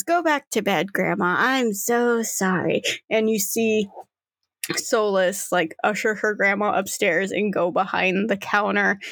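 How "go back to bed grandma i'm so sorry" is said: apologetic granddaughter. Acted. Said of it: "She goes".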